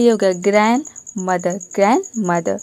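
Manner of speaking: ग्रैंडमदर with the d dropped; teacher models silent d in ग्रैंडमदर. Shown as a demonstration. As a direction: say ग्रैंडमदर as "granmather". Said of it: "डी silent है".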